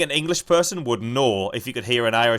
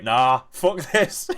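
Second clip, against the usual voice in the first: slow, loud mock storm-off; retold fed-up outburst; 3 semitones higher, 5 dB louder, much slower than usual. Friend retelling Crowe walking out, mock fed-up. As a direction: imitate someone quitting in a huff. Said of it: "And he was like".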